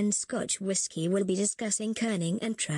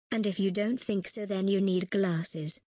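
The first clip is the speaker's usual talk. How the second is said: condescending. Acted. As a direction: drag it out, looking down on them. Condescending teacher insults the class.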